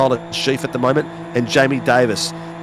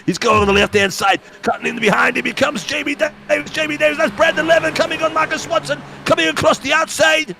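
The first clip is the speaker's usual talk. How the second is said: high, excited Scottish race commentator; Scottish accent; 12 semitones higher than usual. Acted. Commentator calling the cars coming through, Scottish accent. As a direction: build the race call in a hammed-up Scottish accent, pitch climbing. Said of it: "That was a bit too Scottish".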